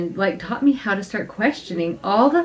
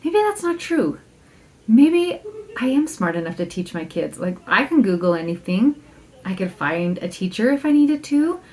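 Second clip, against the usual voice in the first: reassuring self-talk. Retold or imitated. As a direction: talk yourself back into confidence. Reassuring herself through journaling.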